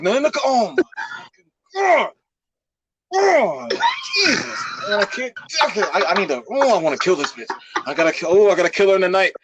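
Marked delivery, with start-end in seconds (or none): 0.0-6.3 mock panic. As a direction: panic as the sister runs off to tell. Panic as sister runs to mom.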